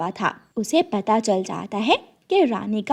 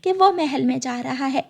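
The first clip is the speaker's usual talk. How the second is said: pleading sparrow; 4 semitones higher than usual. Acted. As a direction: beg the queen to believe her.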